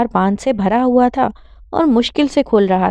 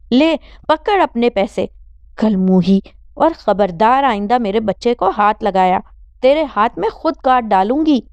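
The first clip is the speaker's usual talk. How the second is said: angry threat. Acted. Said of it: "Rashida غصے سے بولی".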